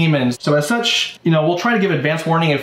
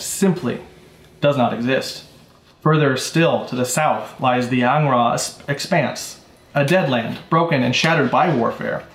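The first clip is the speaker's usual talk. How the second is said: story narration. Acted. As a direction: set the scene like a storyteller. Narrates the world setting.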